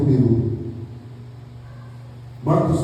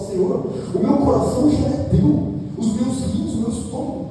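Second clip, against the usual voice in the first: higher, rising fervent prayer to the Lord; fervent surrender; 10 semitones higher, 3 dB quieter than usual. Acted. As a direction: offer every part of yourself, climbing in pitch. Worshipper pouring out heart to God. (oração fervorosa, subindo o tom)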